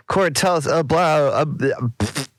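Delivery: tripping over his words; stammering, can't get it out; stuttering. Real, not acted. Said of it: "I'm stuttering so hard today".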